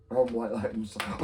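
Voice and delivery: ordinary talk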